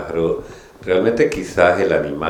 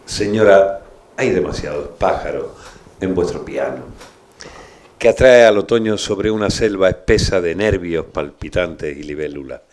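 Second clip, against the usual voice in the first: poetry reading. Acted. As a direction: read the poem with weight. Reads a Huidobro poem aloud.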